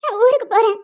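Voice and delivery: tearful threat to leave; crying. Acted. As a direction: speak through tears with caught breaths. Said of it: "அதுக்கே இவ்ளோ அழுகுற". (அழுதுகொண்டே மிரட்டுதல்)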